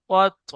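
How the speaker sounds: slow কত, the t released with a small echoing bounce; spring back off the stopped t in কত; qalqalah bounce. Shown as a demonstration. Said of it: "ঠিক এমন কলকলা হবে".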